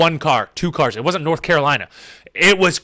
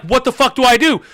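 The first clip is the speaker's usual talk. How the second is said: higher-pitched, frantic self-questioning; retold freak-out; 4 semitones higher than usual. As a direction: re-enact panicking at the wheel. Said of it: "I'm freaking out".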